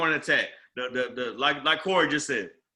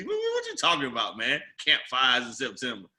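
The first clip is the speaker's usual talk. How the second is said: lower, puzzled echo of the question; retold bafflement; 5 semitones lower than usual. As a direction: repeat it back as if baffled. Retold baffled reply to customer's tease.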